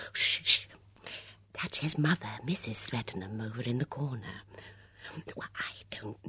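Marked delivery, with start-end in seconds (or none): 0.1-0.7 hushing. Acted. Hushing friend about nearby mother.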